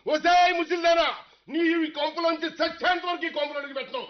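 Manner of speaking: angry taunt. Acted. Insulting mother-in-law while leaving.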